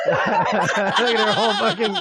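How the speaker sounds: talking through real laughter; laughing. Real, not acted. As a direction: crack up while getting it out. Cracking up at the clip.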